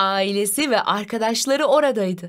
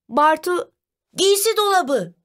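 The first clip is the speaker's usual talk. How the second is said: excited shout; 9 semitones higher than usual. A narrator's reading. Brother guesses the riddle from where he sits, excited high call. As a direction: call out the answer eagerly, pitched up. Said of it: "diye heyecanla bağırdı".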